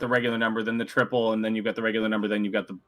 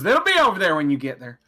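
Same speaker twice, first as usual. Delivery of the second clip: light Southern barmaid voice; southern accent; 3 semitones higher, 3 dB louder than usual. Acted. Barmaid directing players to the darts, light Southern accent. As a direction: give her a touch of Southern accent. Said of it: "gave her a southern accent".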